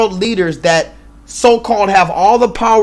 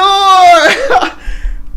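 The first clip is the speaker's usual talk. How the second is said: high laughing burst; 9 semitones higher than usual. Real, not acted.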